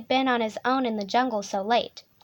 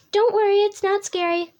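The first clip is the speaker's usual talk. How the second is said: raised, louder comforting voice; hasty reassurance; 8 semitones higher, 5 dB louder than usual. Acted. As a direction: jump in to calm a scream. Reassures the frightened listener.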